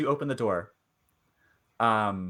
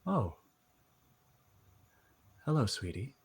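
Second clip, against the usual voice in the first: Howard; 7 dB quieter than usual. Acted. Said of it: "he looks up at you and says".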